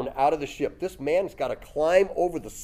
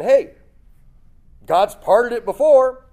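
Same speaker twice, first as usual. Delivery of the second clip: eager, raised voice; mock-excited realization; excited hey; 7 semitones higher, 9 dB louder than usual. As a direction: call it out like a bright idea. Jesus voiced thinking, excited.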